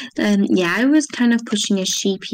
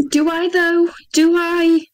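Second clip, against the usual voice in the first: teasing; 6 semitones higher, 4 dB louder, slower than usual. Real, not acted. Teasing question.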